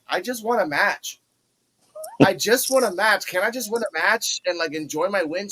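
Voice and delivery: a hint of a plaintive plea; imitating Carly. Carly in the background pleading for a win, lightly whiny. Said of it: "Carly Bright ... is just like".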